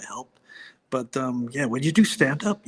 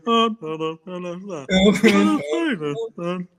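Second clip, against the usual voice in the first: parish priest impression; 3 semitones higher, 5 dB louder than usual. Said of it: "impression of my, uh, parish priest".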